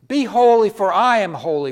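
loud, high-pitched divine command; ringing pulpit declaration; commanding proclamation. Acted. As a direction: proclaim it as an order from God. Preacher voicing God's command.

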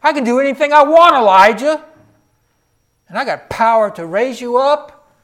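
God proclaiming his power to Elijah, loud and rising; voice of God, building. Acted. Preacher voicing God, building loud.

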